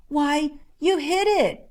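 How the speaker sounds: put-on high, slow, amazed boy's cry; excited cry. A narrator's reading. Boy marvels at Little John's shot, excitedly. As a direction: gasp it out, thrilled he hit it. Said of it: "he cried excitedly".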